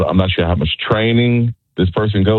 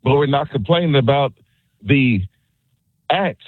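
heated protest; 5 semitones higher than usual. Real, not acted. Caller arguing with the host.

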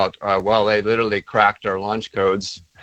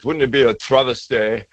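a light hint of a proper British accent; mock a posh British CEO, understated. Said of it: "he says with a British accent".

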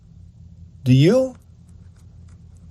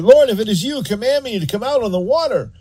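eager Peter; 6 semitones higher, faster than usual. Retold or imitated. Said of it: "what was going on in Peter's head".

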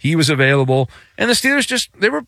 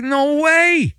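emphatic refusal; 11 semitones higher than usual. Pretend. Acted refusal to quarterback.

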